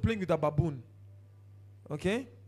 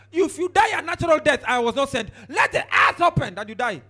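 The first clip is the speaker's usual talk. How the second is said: loud, higher stern decree; Moses pronouncing doom; 4 semitones higher, 7 dB louder than usual. Retold or imitated. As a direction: proclaim the curse like Moses.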